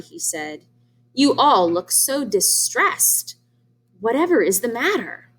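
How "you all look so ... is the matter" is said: a hint of a sly fox. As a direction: draw it out with fake concern. Sly fox speaks sweetly.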